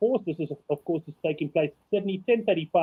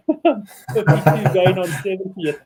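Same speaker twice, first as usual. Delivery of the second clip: laughing; 4 dB louder, slower than usual. Real, not acted. Laughing at his own joke.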